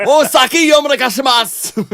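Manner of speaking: shouted high through laughter; a big, loud, laughing cheer; laughing toast. Real, not acted. Remembering legendary Japan hangs with Peter, a loud laughing toast.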